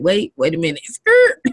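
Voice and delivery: sudden high squeal on skirt; mock surprise. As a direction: pretend to slam the brakes. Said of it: "our listeners are probably like".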